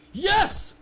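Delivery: sudden loud, high shout of triumph; real yell. Real, not acted. Gamer yelling at his screen after catching the baby. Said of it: "I yelled".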